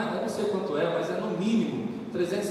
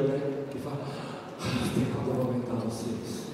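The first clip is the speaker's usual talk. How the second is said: quieter, earnest preaching; sermon; 7 semitones lower, 6 dB quieter than usual. Acted. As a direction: exhort the congregation calmly. Sermon exhortation. (pregação séria e contida)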